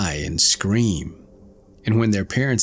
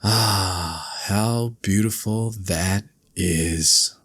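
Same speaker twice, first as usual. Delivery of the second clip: soaring, much higher delighted calls; joyful cry; 3 semitones higher than usual. Acted. Lark rising into the sky, joyful high cries. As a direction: sing out the joy from the sky. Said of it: "she ascends high in the air and cries".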